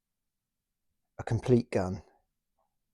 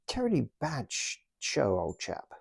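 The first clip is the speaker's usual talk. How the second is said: posh officer voice; 3 semitones higher than usual. Pretend. Toy officer voiced by owner.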